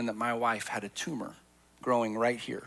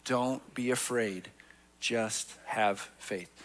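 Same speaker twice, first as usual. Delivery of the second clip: much slower, each word drawn out; slower repeat; much slower than usual. Shown as a demonstration. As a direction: repeat it slowly so every word lands. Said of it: "One more time".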